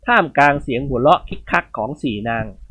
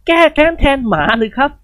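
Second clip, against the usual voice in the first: puzzled son; 10 semitones higher, 4 dB louder than usual. Acted. Phon asks back, puzzled.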